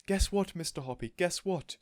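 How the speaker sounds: high, loud squeals of joy; thrilled lady waving the tortoise overhead; excited shouting. A narrator's reading. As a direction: shout it out, overjoyed. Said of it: "waving it about her head and shouting".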